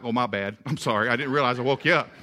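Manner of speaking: understated mock apology from a dog; apologetic dog. Dog to the owner he woke, mildly sheepish apology. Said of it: "he'll look at me and be like".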